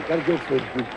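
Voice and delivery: quiet aside. Real, not acted. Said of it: "repeat, softer lower".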